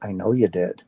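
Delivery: low, grave and knowing; unsmiling knowing reply. Retold or imitated. Retold stranger answering about the near-death experience, grave. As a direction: drop the pitch, no smile in it. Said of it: "he stopped smiling".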